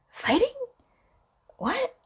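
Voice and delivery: high startled question; puzzled surprise. Retold or imitated. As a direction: caught off guard. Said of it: "I'm like".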